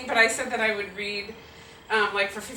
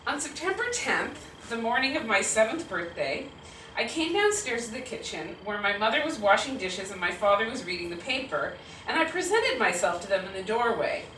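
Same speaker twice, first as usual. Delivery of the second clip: measured, storytelling read-aloud; story narration. A narrator's reading. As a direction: narrate a childhood memory to an audience. Reads monologue aloud.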